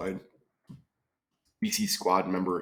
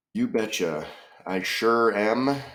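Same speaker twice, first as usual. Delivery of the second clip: put-on playful Minnesota folksy accent; mock Midwestern dialect; 3 semitones higher, 4 dB louder than usual.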